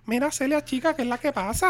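hammed-up fake Cuban "chica"; mock Cuban accent. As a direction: squeal it like a caricature Cuban auntie. Mocking overdone Cuban accent.

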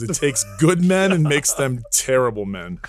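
slow, lightly imitated pronouncement; Arnold Schwarzenegger. Retelling a star's warning about marriage, slowly imitated. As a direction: stretch it out like sage advice, lightly acted. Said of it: "he is the most charismatic person ever".

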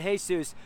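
"Jesus" said the Spanish way, "HAY-soos"; "Jesus" with an h sound and oo vowel, "hay-SOOS"; Spanish pronunciation. Retold or imitated. Preacher showing how the Spanish man says the name, "Jesus" as "hay-soos". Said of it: "He didn't use the word he".

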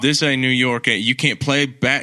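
lightly put-on Southern sports-radio take; Southern accent. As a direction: complain in a mock Southern accent. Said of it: "in a Southern accent".

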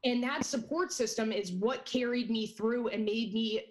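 shaking voice. Real, not acted. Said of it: "my voice is shaking right now".

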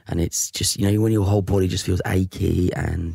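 halting, mildly poorly Cockney; Cockney sick caller. Acted. Employee describes aches to boss, halting mild Cockney. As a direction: sound faintly achy, in light Cockney. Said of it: "got this Phil Mitchell Cockney accent".

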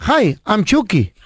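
slow creepy doll voice, dropping low on the question; Chucky line. Shown as a demonstration. Producer demonstrating the Chucky script, slow creepy doll. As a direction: menace it out like a killer doll. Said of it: "Ponga ahí".

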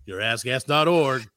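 slow, booming radio announcer read. Pretend. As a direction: ad read like an old DJ. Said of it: "I can't help but do the radio voice".

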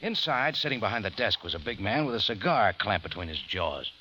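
hardboiled first-person narration; noir detective. A narrator's reading. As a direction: tell it like a tough private eye looking back.

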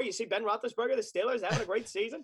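hammed-up TV draft pundit; Mel Kiper. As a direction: do a fast-talking football analyst. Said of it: "That's really the only Mel Kiper I could do".

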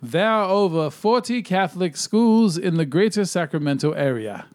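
lightly hammed-up announcer voice; announcer guy. Host reads the top list fact, announcer guy voice. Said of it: "it's like my old announcer guy voice".

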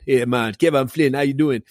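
lightly imitated Jamaican cabbie; Jamaican accent. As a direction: greet someone with a touch of a Jamaican accent. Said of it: "I think he was actually Jamaican".

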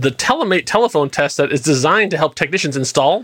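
polished product-pitch read; brisk, smooth commercial voice-over. Acted. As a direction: sell it like an infomercial announcer. Reads product blurb like an ad.

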